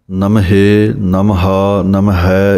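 ਨਮਹੇ ਨਮਹਾ ਨਮਹੈ with added vowel endings after the h; wrong pronunciation demo. Shown as a demonstration. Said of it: "ਇਸ ਤਰ੍ਹਾਂ ਨਹੀਂ ਬੋਲਣਾ".

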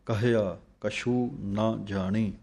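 ਕਹਿਆ with the h sound kept, slow; ਕਹਿਆ, not ਕਿਆ. Shown as a demonstration. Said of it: "ਹਾਹੇ ਸਿਹਾਰੀ ਦੀ ਆਵਾਜ਼ ਦੇਣੀ ਹੈ".

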